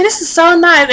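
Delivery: acted pleased cooing; imitated admirer. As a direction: lightly mimic a woman admiring what she touches. Voicing the woman admiring her hair.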